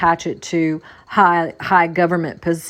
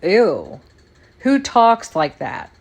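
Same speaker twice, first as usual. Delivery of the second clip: disgusted; slower than usual. Real, not acted. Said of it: "I have a feeling of disgust".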